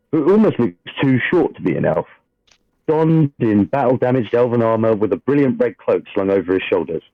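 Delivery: steady dramatic scene-setting read; game master narration. A narrator's reading. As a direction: read the opening like a storyteller at the table.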